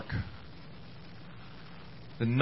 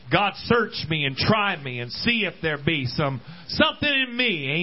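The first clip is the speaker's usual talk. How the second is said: prayerful cry rising to a shout; 2 semitones higher than usual. Acted. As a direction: cry out to God from the gut. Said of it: "dig down in a little bit".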